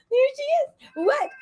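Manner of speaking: delighted pet greeting, high and bright; cooing to the dog. Real, not acted. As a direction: coo it like you just spotted your dog.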